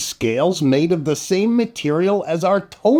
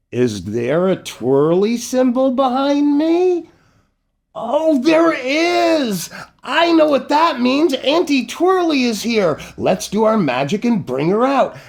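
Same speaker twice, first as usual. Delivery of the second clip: much higher, rising thrill building to a call; excited summoning; 9 semitones higher than usual. Acted. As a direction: whip up the kids as the magic starts. Host excitedly summons Auntie Twirly.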